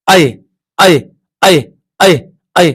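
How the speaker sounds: ऐ said slowly and drawn out, each one repeated clearly; drawn-out vowel demo. Shown as a demonstration. Teacher sounding out ऐ for students, drawn-out vowel. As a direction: sound out ऐ for the class, vowel held long. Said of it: "मैं करता हूं".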